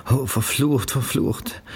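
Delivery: höher, verflucht halb tonlos gezischt; gezischter Fluch. A narrator's reading. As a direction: zisch den Fluch gereizt hervor. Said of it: "zischt sie Rebecca an". (Janice zischt das schreiende Baby an)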